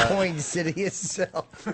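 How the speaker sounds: COIN stretched slowly; mock mispronunciation. Host echoing the worst mispronunciation, slow and mocking. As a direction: drag out Coin while amused. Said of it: "That's the worst mispronunciation I've ever heard".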